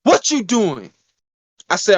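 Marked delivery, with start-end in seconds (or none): 0.0-0.9 friend calling out. Retold or imitated. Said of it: "He said".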